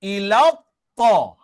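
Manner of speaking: "Ila ta" slow and loud, vowels rounded to o; rounded o sound. Shown as a demonstration. Teacher models the o sound, "Ila ta" slow and rounded. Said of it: "yang berbunyi o".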